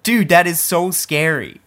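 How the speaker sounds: loud, slow horrified exclaim; dude, genuinely spooked. Real, not acted. Horrified at yearbook photo.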